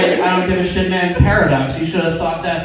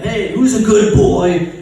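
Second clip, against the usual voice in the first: slow, louder dog-praising voice; 3 semitones higher, 5 dB louder than usual. Acted. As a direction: gush over the dog, drawing it out. Owner praising his dog, acted.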